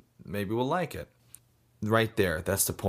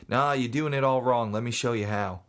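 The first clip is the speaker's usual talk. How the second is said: put-on Australian accent; 3 semitones higher than usual. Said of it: "I think he was Australian".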